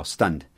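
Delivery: stunned said as one syllable with a soft D ending; stunned, a single beat closing on D; stunned, no added vowel after the D. Shown as a demonstration. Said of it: "Só um som de D no final".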